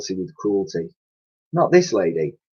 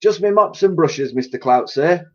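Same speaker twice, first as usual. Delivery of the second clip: innocent cleaning lady; 8 semitones higher than usual. Acted. Dotty answers boss.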